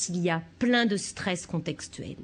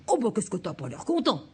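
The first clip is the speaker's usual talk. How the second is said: parent en miroir. Shown as a demonstration. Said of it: "vous allez faire quelque chose comme".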